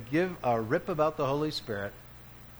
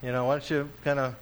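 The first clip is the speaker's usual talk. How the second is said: breezy, offhand mock version of God, quicker; mock casual God; faster than usual. Preacher mocks a casual God speaking to his people, breezy. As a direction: toss it off like a shrug. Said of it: "He's not saying that at all".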